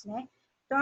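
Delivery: normal talking voice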